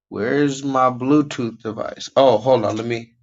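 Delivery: a little high, muttering to himself; stoner. Real, not acted. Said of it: "And I'm kinda high right now".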